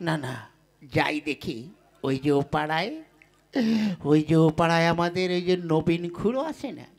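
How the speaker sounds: lightly voiced lovesick lad, a bit low; a hint of a bumbling suitor talking to himself; lovestruck village suitor. Scheming how to woo Lalita, lightly voiced lovesick lad. Suitor Foring muses before wooing.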